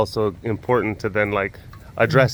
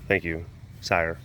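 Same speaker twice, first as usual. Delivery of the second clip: humble servant; 8 semitones lower, 6 dB quieter than usual. Retold or imitated. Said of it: "And I'm like".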